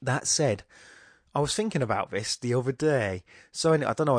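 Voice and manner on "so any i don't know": put-on a slight slip into a northern English accent. Host drifting mid-thought into a light northern English accent. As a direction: let a hint of northern English accent creep in. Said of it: "I did a northern accent there".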